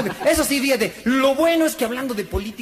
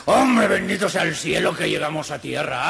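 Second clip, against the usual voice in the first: scared cursing. Acted. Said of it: "se baja todo asustado, maldiciendo".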